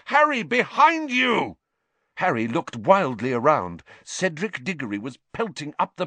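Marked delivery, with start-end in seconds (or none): 0.1-1.6 high, loud urgent yell; anguished yell. A narrator's reading. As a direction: warn him, yelling high. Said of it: "Wood's anguished yell".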